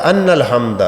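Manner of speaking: "ان" said "anna", with a instead of i; wrong vowel. Retold or imitated. Teacher quoting bus driver's error, "ان" mispronounced as "anna". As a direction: repeat the driver's "ان الحمد" with an "a" opening. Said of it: "وہ کہہ رہا تھا".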